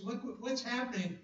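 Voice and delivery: voicing Habakkuk. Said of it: "Can you hear the dilemma of Habakkuk".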